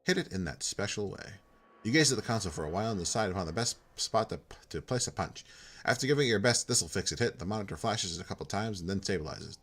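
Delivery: steady read-aloud of game text; game text narration. A narrator's reading. Player reading the repair scene text aloud, narrating. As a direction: read the screen text like a storyteller.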